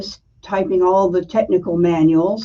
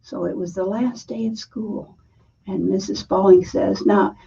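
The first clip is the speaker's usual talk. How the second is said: Southern accent; 3 semitones higher than usual. Shown as a demonstration. A woman telling her childhood softball story, light Southern accent. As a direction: tell it the way a Southern girl would, lightly. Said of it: "I'm gonna tell you this story in a Southern accent".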